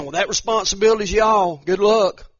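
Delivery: loud, breezy brush-off; mock dismissive shrug. Grandparent brushing off the grandkids, loud breezy mock. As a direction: toss the burden off with a careless good luck. Mocking grandparents passing responsibility.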